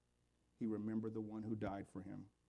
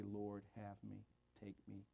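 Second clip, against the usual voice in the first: humble surrender; 8 dB quieter than usual. Acted. Quoted surrender prayer of listener.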